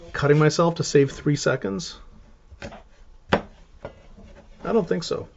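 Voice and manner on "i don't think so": whisper. Real, not acted. Aside after rhetorical question.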